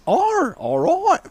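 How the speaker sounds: high, slow drawn-out Australian oh all right; Australian coach, slightly let down, slow and high; mock Australian. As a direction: stretch it like the Aussie coach. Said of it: "she goes".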